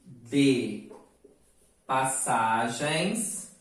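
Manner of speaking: each word drawn out with long pauses; slow verse recitation. Shown as a demonstration. Teacher dictating poem lines slowly to students. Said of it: "Os versos são, entre aspas, ó".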